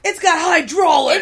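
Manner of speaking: excited shout. Real, not acted. Joking outburst.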